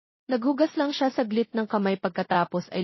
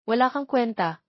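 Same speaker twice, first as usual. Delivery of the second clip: angry; 4 semitones higher than usual. Acted. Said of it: "galit na sabi ni Eric".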